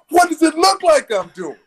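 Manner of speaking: high, slowed mock retort; retold retort. Bobby answering the attendant in the shower, high mock retort. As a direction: answer back with high exaggerated innocence. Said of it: "I said".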